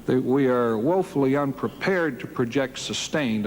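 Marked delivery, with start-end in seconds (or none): 2.8-3.4 "sustained" set apart with deliberate weight; stress on SUSTAINED. Real, not acted. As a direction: lean firmly on the word "sustained". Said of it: "I emphasize the word sustained".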